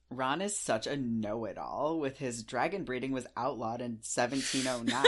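sarcastic jab at a know-it-all; mock-indignant, heavily emphasised. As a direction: pile on the sarcasm. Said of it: "incredibly sarcastic. I'm being very sarcastic".

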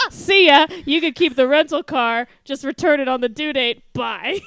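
loud, carefree goodbye; hammed-up friend ditching his buddy in France; breezy mock farewell. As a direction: toss it off as you bolt. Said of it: "He says".

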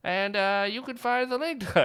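put-on hammy newsreel Mid-Atlantic accent. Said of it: "I'm gonna do the Mid-Atlantic accent the whole time".

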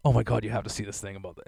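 mock giddy. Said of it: "giddy to tell me this".

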